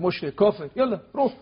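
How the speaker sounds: mild mock shout of accusation; retold yell. Guard yelling at the pilgrim kissing the shrine, mild mock shout. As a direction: throw the insults like the guard did. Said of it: "داد زد به سر من".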